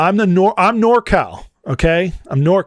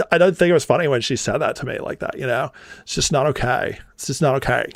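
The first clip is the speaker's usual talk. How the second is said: mock a Valley Girl, vowels stretched; hammed-up Valley Girl accent, softly appalled; 4 dB quieter, faster than usual. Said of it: "I just showed you Valley Girl".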